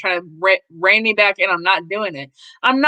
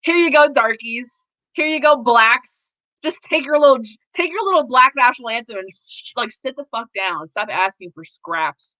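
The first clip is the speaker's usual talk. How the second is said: mocking Congress voice; 3 semitones higher than usual. Congress talking down to Black people, mock condescending. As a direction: hand out scraps with fake kindness. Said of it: "And they're like".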